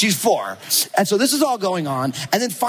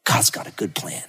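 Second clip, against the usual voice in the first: soft, breathy, half-laughing; smiling, soft laugh; 7 semitones lower, 4 dB quieter than usual. Retold or imitated. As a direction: say it through a knowing smile. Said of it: "she smiles".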